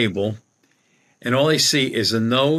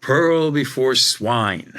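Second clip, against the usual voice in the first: put-on slow, drawn-out English accent; much slower than usual. English psychic approaches the dejected speaker, imitated English accent. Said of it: "with her English accent".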